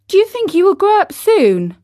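high, loud playful question; reading to children. Acted. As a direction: ask the children brightly. Asks young listeners.

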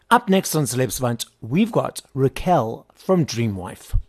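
scripted presenter read, evenly paced; podcast intro read. Acted. Host introducing a band to listeners, podcast intro read. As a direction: introduce the show and guest like an announcer.

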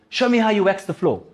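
Mister Miyagi. Retold or imitated. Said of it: "and he goes".

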